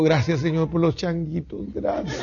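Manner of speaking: soft prayer fading into a chuckle; laughing prayer. Acted. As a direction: give thanks while laughing it off. Oración burlona con risa. (oración entre risas, bajando la voz)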